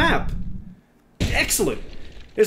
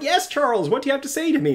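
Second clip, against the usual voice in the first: mock eager reply; 3 semitones higher, faster than usual. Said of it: "And I'm like".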